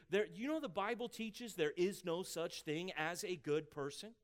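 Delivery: firm, emphatic statement with weight on "good"; authoritative and emphatic. Shown as a demonstration. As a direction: say it with full authority, leaning on "good". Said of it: "say authoritatively and emphatically".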